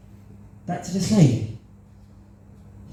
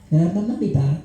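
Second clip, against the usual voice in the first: very polite; 3 semitones higher, faster than usual. Retold or imitated. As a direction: ask nicely, no guilt. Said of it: "So I asked very politely".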